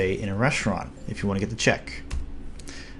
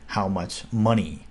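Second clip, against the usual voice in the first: "how much money?" said slowly; plain gloss; 2 semitones lower, slower than usual. Shown as a demonstration. Teacher glosses the phrase for learners, slowly. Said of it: "if I say it phonetically".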